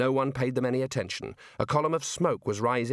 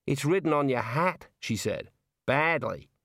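put-on Australian girl voice. Neelet's lines in the story.

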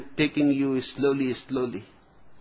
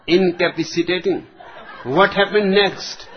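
put-on young captain voice; 2 semitones higher than usual. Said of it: "to a young captain".

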